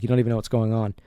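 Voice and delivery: subdued, level, mildly somber murmur. Retold or imitated. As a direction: say it with the fight gone out of him. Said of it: "almost in a somber tone".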